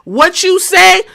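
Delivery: high, mocking taunt; taunting the crowd. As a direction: tease the booing crowd. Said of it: "Everybody booing".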